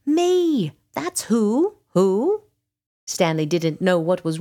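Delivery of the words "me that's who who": high, loud exasperated retort; exasperated dragon. A narrator's reading. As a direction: throw the question back, high and emphatic. Dragon exasperated by repeated question.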